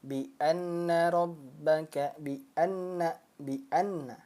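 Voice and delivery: Bi anna with a short pressed nn, no hum; just tap the nn in anna; pressed, not held. Shown as a demonstration. Teacher demonstrating the wrong pressed way. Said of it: "dia ditekan seperti ini saja".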